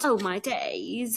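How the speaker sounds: slow, mock British exclamation; British accent. Shown as a demonstration. Co-host redoing her exclamation, slow British accent. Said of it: "In, in the British's accent".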